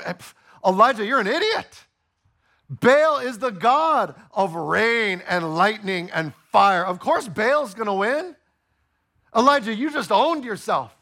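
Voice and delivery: scoffing crowd jeering at Elijah; mocking crowd voice. The crowd jeering at Elijah, scoffing. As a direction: sneer it like a smug heckler.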